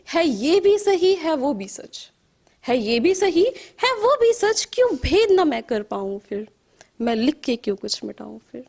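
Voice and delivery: questioning verse, lifted openings and sinking refrains; poetry recital. Acted. Poet who cannot write or speak her thoughts, searching poetry recital. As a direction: recite in measured, swinging lines. Recites second poem to audience.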